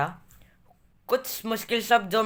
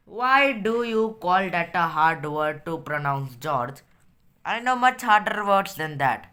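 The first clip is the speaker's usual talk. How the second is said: story reading; 2 semitones lower, much slower than usual. A narrator's reading. Reads story aloud in English.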